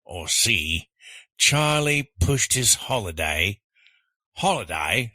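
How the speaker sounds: put-on Australian accent. Quiz contestant reading choice C on request, Australian accent. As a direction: give it your best Australian accent. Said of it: "read these choices in your best Australian accent".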